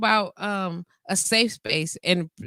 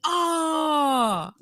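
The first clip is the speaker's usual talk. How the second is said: mock surprised oh; 8 semitones higher than usual. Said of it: "they're like".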